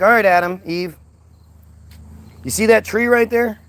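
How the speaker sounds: casual boss God laying down the rule; a hint of a laid-back God; God giving orders. God voiced in comedy bit.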